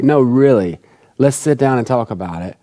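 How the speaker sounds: earnest, unhurried invitation to talk; mean it, as if you have time to listen; sincere invitation. Shown as a demonstration. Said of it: "I mean like".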